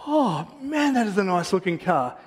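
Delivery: lightly acted car admiration; admiring. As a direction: gush over a nice car. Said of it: "I was like".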